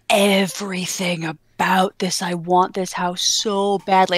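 slow whispered yearning; breathless wanting; longing whisper. Retold or imitated. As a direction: whisper it like a dream house. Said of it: "that I'm like".

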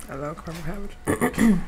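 words through a mouthful; eating while speaking; talking while chewing. Real, not acted. Seen 1: mouth full, chewing visible during words, surrounding frames too.

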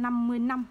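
last word "năm" with n where "lăm" belongs. Shown as a demonstration. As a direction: quote the mistake, ending "năm" on an n. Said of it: "chữ năm này là sai". (đọc "năm" với âm n thay cho "lăm")

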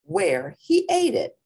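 put-on high, loud cat kid voice; kitty boy voice. Kitty boy chasing flies, high and excited.

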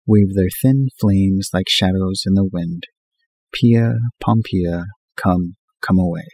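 lightly mock-solemn poem reading, slowing on the names; reading a poem aloud. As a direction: recite the verse a little grandly, half in fun. Reads poem aloud from magazine.

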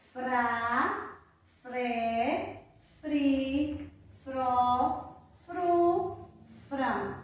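each fr syllable drawn out separately: frá, fré, fri, fró, fru, frã; teacher modelling frá to frã, each vowel held; syllable drill. Shown as a demonstration. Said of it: "que vai receber outro som".

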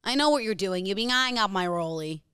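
put-on American lady accent; suspicious American woman, lightly acted. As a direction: accuse a friend as a lightly voiced American lady. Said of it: "You're an American lady".

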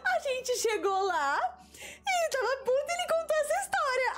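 high, giggly telling; laughing while telling. Real, not acted. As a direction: keep laughing through the story. Still laughing at the punch.

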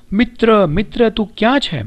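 high-pitched, restrained narrated call; crying out loudly. A narrator's reading. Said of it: "રેશમાએ મોટેથી બૂમ પાડી". (ઊંચા સૂરે હળવી બૂમ)

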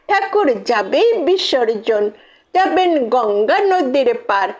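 lilting rhymed recital, settling towards the close; rhythmic closing verse; poem recitation. Acted. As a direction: recite in steady festive couplets.

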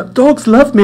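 high, loud mock drunk insistence; tipsy woman insisting. Drunk stranger insists dogs love her, high and loud. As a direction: imitate her swaying confidence. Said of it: "she was obviously worse for wear".

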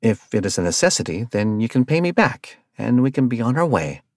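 level, even reply; calmly defusing the row. Acted. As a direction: keep it calm and reasonable. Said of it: "Arthur replied calmly".

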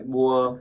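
"bua" opening with a plain Vietnamese b; Vietnamese-style b. Shown as a demonstration. Teacher showing Vietnamese learners an easy option, "bua" with Vietnamese b. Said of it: "đọc giống y chữ bờ ở Việt Nam".

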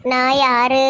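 drawn-out eerie question to scare her; a mock haunting, low and slow; spooky ghost voice. Daughter-in-law repeating the ghost question to her mother-in-law, eerie. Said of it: "பயம் காட்டுறேன்".

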